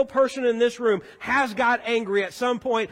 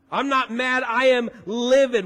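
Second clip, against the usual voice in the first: mild mock anger, louder on "livid"; acted livid anger; 4 dB louder than usual. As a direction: punch "livid" to show displeasure. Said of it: "know how angry we are".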